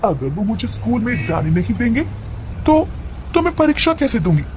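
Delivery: lightly voiced childlike mad girl, coaxing; a hint of a little-girl plea. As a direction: nag mother like an eager schoolgirl. Mad girl talks to mother.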